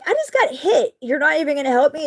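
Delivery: high, fast indignant disbelief; incredulous. Retold or imitated. Asking the drivers behind for help, high outraged disbelief. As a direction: voice jumps up, outraged that nobody helps. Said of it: "I'm like".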